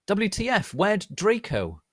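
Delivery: high, loud disbelief; shocked question. A narrator's reading. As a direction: blurt it out in surprise. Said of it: "I asked him".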